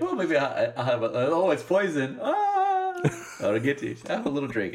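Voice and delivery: hammed-up villain. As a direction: act out a sly poisoner, lightly. Villain offering poison, acted.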